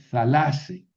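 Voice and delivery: thalase said slowly as tha-LA-se; slow down and lean on the LA of thalase; stress on middle syllable. Shown as a demonstration. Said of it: "¿Por qué aquí sí moví el acento?". (thalase despacio, con acento en la penúltima sílaba)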